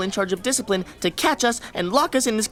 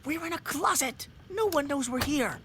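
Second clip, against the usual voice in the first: very soft, higher whisper; hushed whisper; 3 semitones higher, 8 dB quieter than usual. Acted. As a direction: keep it hushed while hiding. Whispering in the closet.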